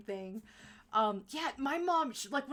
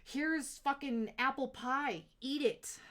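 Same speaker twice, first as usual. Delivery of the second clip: mock pushy parent; 4 semitones higher, 4 dB louder, much slower than usual. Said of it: "I don't wanna be like".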